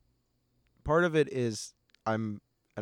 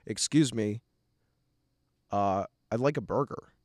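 put-on clear American accent; 2 semitones lower than usual. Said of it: "speak in my most clear American accent".

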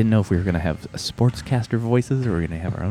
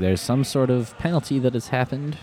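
sportscaster voice. Acted. Mock play-by-play call.

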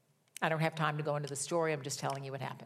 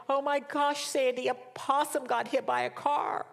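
frantic mother; 7 semitones higher than usual. Retold or imitated. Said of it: "she was frantic".

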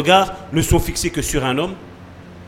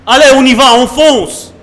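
rally the group like an impatient leader; imitating himself spurring people on; urging on; 3 semitones higher, 4 dB louder than usual. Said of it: "gesticuler pour vous dire".

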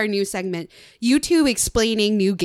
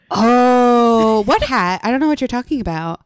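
fast, loud feigned innocence; mock innocence; 5 dB louder than usual. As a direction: play dumb, rushing the words. Feigned innocence about embarrassing video.

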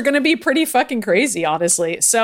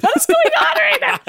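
baffled. Real, not acted. Baffled by the absurd plot.

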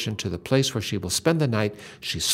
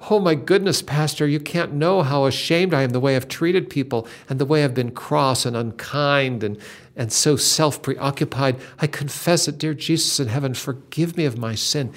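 ashamed confession. Retold or imitated. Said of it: "she just says out loud to the stranger man".

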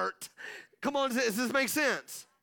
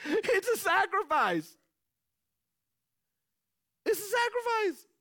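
higher and higher each time; building preaching; 10 semitones higher, 3 dB louder than usual. Real, not acted. Preacher repeating the key line, rising. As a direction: climb it like a sermon peak.

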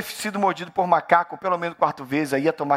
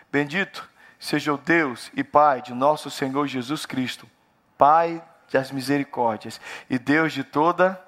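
scripture reading; 2 semitones lower, slower than usual. Acted. Pastor reading Corinthians to the church, solemnly. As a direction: read the verse with reverence.

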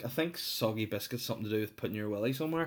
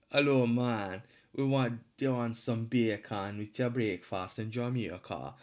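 wobbly mock-Jamaican lilt; bad Jamaican accent. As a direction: attempt a Jamaican accent, badly. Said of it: "I can do a Jamaican accent".

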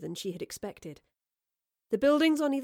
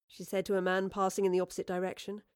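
usual speaking voice

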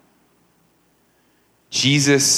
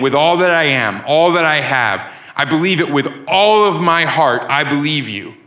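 wholehearted declaration, swelling on "all"; earnest, emphatic vow of belief; emphatic conviction; 3 semitones higher than usual. Acted. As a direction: profess it firmly, leaning on each "all". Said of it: "Basically, she's saying".

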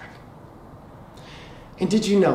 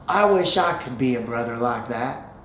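lower-pitched, lightly voiced Texas boy; a hint of Texan boy, lifting at the end; Texas accent; 4 semitones lower than usual. Boy tells man his wish, light Texas accent. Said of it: "in a Texas accent".

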